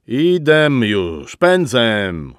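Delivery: "Idem" and "pędzem" end with a stressed dialect -em; mock dialect ending. A narrator's reading. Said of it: "starannie akcentując jej gwarowe emki".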